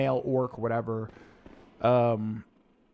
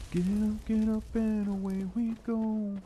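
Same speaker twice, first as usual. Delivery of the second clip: character voice; 9 semitones higher, slower than usual. Retold or imitated. Repeating game line.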